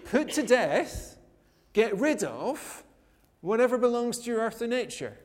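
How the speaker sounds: slow, weighty reading of Paul's command; slow emphatic quote. Retold or imitated. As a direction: put to death, drawn out slowly and stressed. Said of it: "he was saying".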